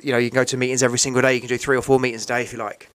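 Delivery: quick, eager retelling of a helper's pitch; brisk imitation of someone rushing ahead; rapid-fire pitch. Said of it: "Slow down, mate".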